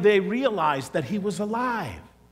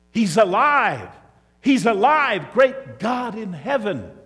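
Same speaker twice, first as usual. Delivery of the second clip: joyful exclamation; 3 semitones higher, 5 dB louder, slower than usual. Acted. Disciples recognize Jesus, overjoyed.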